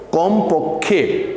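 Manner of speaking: কমপক্ষে drawn out very slowly and weighted; stress on কমপক্ষে. Shown as a demonstration. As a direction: stretch out কমপক্ষে for emphasis. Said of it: "এই পয়েন্টটা note করে রাখো".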